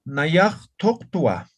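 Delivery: "Nayaj toktua" said very slowly and clearly; slow dictation. Shown as a demonstration. Teacher dictating the finished form to students, very slow. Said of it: "aquí está el verbo".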